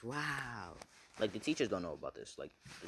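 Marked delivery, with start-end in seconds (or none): 0.0-0.8 drawn-out, mildly awed exclamation; starry-eyed wonder. Retold or imitated. Boy with sparkles in his eyes, imitated awe. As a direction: stretch it out in lightly acted wonder. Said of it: "has sparkles in his eyes".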